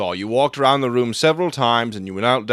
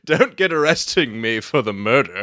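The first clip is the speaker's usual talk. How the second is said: amused. Acted. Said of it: "Holmes laughed".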